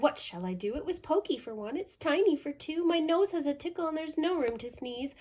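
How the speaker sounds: put-on high, fretful old lady wail; high, loud little old lady cry. A narrator's reading. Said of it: "The little old lady cried".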